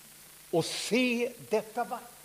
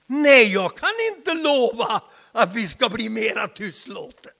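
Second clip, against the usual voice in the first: defiant reply; 7 dB louder than usual. Acted. Levi Petrus answering his critics, defiant. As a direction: refuse boldly, rising to the end. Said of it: "sa han".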